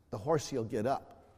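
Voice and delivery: low, very soft voice; retold whisper. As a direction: confide it quietly to a child. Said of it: "I whispered and said".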